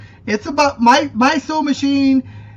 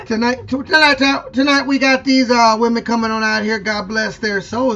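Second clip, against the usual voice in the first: country MC impression. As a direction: stretch every word like a country announcer. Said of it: "stretch it out a little bit more".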